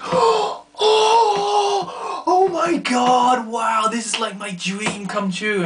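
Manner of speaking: high loud slow gush, fading down; starstruck kid. Retold or imitated. A boy meeting his idol at the doorstep, high and gushing. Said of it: "he was just like".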